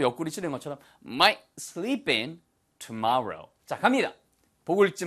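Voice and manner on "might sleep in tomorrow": "might sleep in tomorrow" with a short stop after "might"; clean break after might. Shown as a demonstration. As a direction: end "might" crisply, like a poke in the ribs, then "sleep in tomorrow". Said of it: "might 하고 끊어주셔야 돼요".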